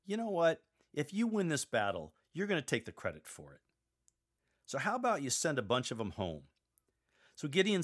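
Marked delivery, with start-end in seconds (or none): 0.1-6.4 voicing God. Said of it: "But God tells him".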